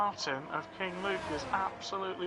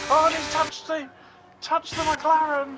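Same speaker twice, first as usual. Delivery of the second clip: excited commentary; 13 semitones higher, 10 dB louder than usual. Real, not acted. Crash in race commentary.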